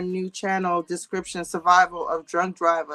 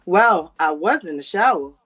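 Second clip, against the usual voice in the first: imitated man's hedging explanation, trailing lower; measured mock explanation, dropping off at the end; Marcus; 3 semitones lower than usual. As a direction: lightly mimic him admitting it bit by bit. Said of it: "Good Marcus impression".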